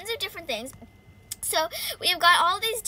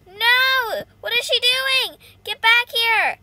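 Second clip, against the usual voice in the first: high, loud game outrage; indignant yell; 5 semitones higher, 7 dB louder, slower than usual. Real, not acted. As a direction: shout after the escaping player. Chasing a rival player.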